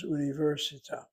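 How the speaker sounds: universita with the accent on VER; stress on third-to-last syllable. Shown as a demonstration. Teacher introducing the textbook's first word, universita stressed on VER. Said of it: "it's the third to last syllable".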